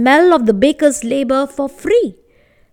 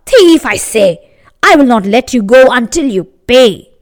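indignant baker; 4 dB louder than usual. Acted. Baker's angry demand.

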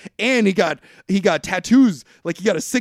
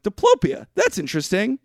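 mock intrigued. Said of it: "And I'm like".

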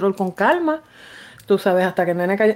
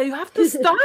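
retold firm order; 7 semitones higher than usual. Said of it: "Decía".

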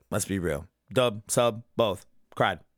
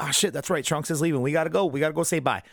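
hurried excitement; 5 semitones higher than usual. Retold or imitated. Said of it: "They're like".

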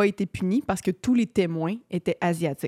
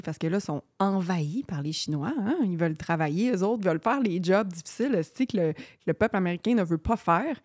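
sarcasme pince-sans-rire; récite ça en faisant semblant d'y croire; ton sarcastique. Acted. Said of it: "vous comprenez mon ton sarcastique". (ton faussement sérieux, sarcastique)

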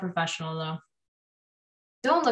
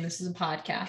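whispering; 4 semitones lower, 10 dB quieter than usual. Real, not acted. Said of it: "Why are we whispering?".

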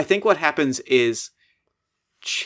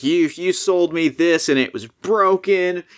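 mock angry customer; 5 semitones higher than usual. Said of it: "character appropriate things".

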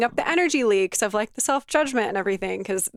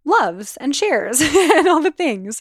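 laughing through the words, louder and slower; 5 semitones higher, 5 dB louder, slower than usual. Real, not acted. Host laughing as she thanks listeners for shares, laughing. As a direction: let a real laugh spill over the end of the list.

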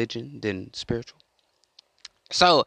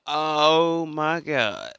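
drawn-out, higher-pitched astonishment; acted shock; 5 semitones higher, 3 dB louder, much slower than usual. Imagining Jesus walking in the door, in mock shock. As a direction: play stunned, raised in pitch and volume.

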